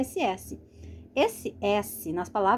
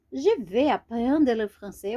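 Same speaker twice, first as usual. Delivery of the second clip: slower, each word laid out for learners; slow repeat; 3 dB louder than usual. Shown as a demonstration. Teacher to beginners, repeating the sentence slowly. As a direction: say it again slowly so they can follow.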